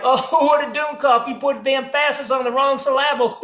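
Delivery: hammed-up dim American mockery, wrong syllables stressed; mocking American. Americans mock German tourist's slip, mocking American. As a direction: jeer at a foreigner's misplaced stress. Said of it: "we Americans would be like".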